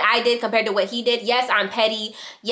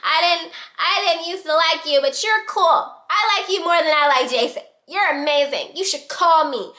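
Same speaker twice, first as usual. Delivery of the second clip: put-on gushing drunk praise; 6 semitones higher than usual. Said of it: "I was like, I said".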